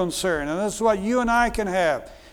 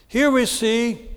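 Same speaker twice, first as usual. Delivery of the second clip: ordinary delivery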